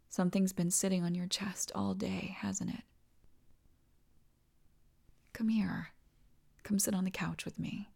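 hushed, gentle coaxing; soft whisper. Acted. Partner coaxing a worried lover onto couch, whisper. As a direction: whisper it like a secret comfort.

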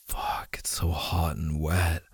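breathy intimate whisper. Acted. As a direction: drop into a close whisper.

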